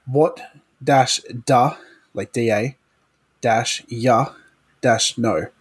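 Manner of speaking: What do you know run together as one word; Australian run-together phrase. Shown as a demonstration. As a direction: blend What dash da dash ya dash no into one. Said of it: "it's one word".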